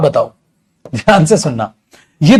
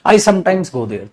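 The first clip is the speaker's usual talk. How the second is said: slow dictation; much slower than usual. Shown as a demonstration. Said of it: "अब मैं अगर आपके सामने ये बोल रहा हूं बेटा".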